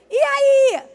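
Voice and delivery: high, loud, over-the-top hey; loud chummy greeting. Retold or imitated. Speaker mocking a coworker with a loud chummy hello. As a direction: blast a too-friendly hello at him.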